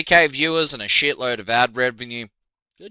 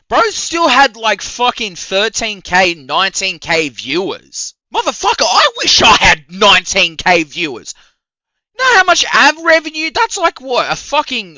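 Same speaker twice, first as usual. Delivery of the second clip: incredulous rant; 4 semitones higher, 5 dB louder than usual. Real, not acted. Ranting about boyfriend's viewer complaints.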